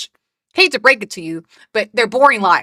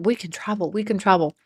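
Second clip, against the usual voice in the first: mocking singsong; 3 semitones lower, 6 dB quieter than usual. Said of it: "the constant emphasis on".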